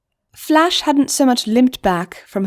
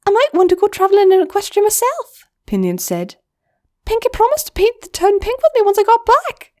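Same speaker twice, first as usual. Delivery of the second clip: high, louder, bright goblin; much higher excited friend; Pinion's voice; 13 semitones higher, 4 dB louder, faster than usual. Acted. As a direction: say it eagerly. Pinion jokes about travel.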